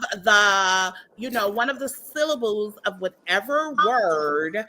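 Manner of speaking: mock her nose-talking, half singing the syllables; lightly mimicked nasal talk-sing; nasal singsong mimicry. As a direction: imitate a put-on, talk-singing voice. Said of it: "when she talks like this".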